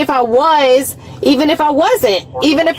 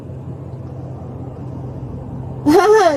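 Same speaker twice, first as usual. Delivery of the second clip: high, breath-driven cackle; scornful laugh; 4 semitones higher, 6 dB quieter than usual. Real, not acted. Detained driver finding nothing funny, scornful laugh. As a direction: laugh bitterly at the situation.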